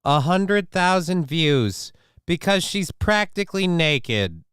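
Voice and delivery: loud, high, indignant complaint; outraged rant. Real, not acted. Ranting to chat about her view count, loud and high.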